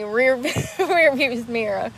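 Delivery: slow, laughing through the hurt; laughing in pain. Real, not acted. Hit her back on the mirror, laughing in pain. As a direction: wince and laugh at once. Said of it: "It hurts so bad".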